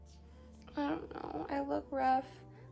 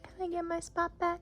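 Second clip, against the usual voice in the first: pet talk; 4 semitones higher than usual. Real, not acted. Asking cat for her spot.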